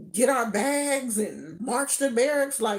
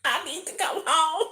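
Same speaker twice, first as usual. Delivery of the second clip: fake crying; 7 semitones higher than usual. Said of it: "I put it on so thick".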